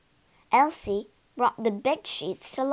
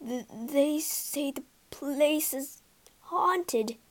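nervous stammer; 2 semitones higher, slower than usual. Acted. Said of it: "gulped Simpkins".

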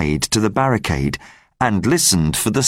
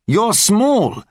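lightly voiced rebel leader; 11 semitones higher than usual. Enjolras calls Gavroche over.

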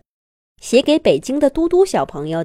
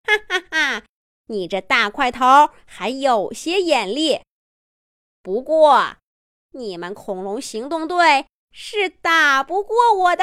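laughing villain taunt; 2 semitones higher than usual. Acted. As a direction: taunt them with a sneer. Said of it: "笑着说". (嘲讽的反派)

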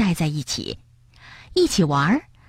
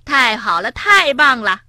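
cheering; 4 semitones higher than usual. Acted. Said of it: "跳跳欢呼起来".

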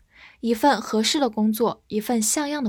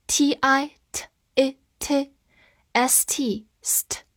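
whisper; 3 semitones higher, much slower than usual. Shown as a demonstration. Spelling drill whispered.

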